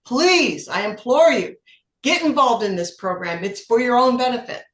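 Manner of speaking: earnest plea. Retold or imitated. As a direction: implore them to get involved, with force. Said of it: "You wrapped it up with".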